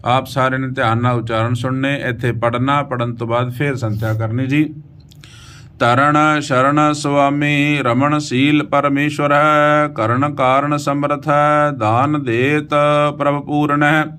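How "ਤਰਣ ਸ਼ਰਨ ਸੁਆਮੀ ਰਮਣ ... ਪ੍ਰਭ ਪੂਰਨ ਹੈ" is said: slow, sustained Gurbani reading; measured verse chant on an even pitch; scripture recitation. Acted. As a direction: recite with long drawn vowels.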